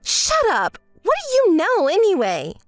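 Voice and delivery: irritated comeback at an accusation; indignant retort. Acted. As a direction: cut them off indignantly. Snaps back at an accusation.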